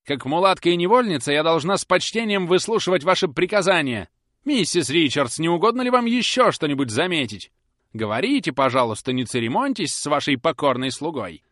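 bow and scrape with venom; bitter sarcasm. A narrator's reading. Susan mocking Polly's orders, loud and bitter. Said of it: "в сердцах".

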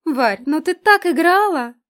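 giggling. A narrator's reading. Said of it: "хихикнула Ленка".

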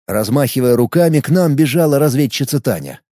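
usual speaking voice

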